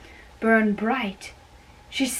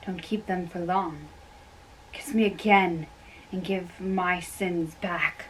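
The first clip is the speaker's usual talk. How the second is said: hushed tender; 3 semitones lower, 8 dB quieter than usual. Acted. Lovers murmuring over a kiss.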